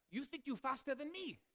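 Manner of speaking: imitated Asian accent, pitched high; thick Asian accent. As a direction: mimic an indignant man in a thick Asian accent. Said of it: "he had a pretty thick Asian accent".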